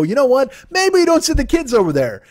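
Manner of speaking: high, squeaky mock parent wising up; mock dawning realisation. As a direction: pitch it way up like a dim parent finally getting it. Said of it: "made you go".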